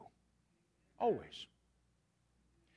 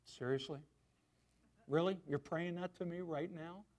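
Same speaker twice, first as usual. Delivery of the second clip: incredulous God; 3 semitones lower, 5 dB quieter than usual. Retold or imitated. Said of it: "God has sat there ... going".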